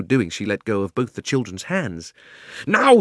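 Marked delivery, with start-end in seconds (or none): 2.7-3.0 high, loud burst; a signal to act; urgent shout. Acted. Diggory shouts to Polly, sudden and loud. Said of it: "shouted Diggory".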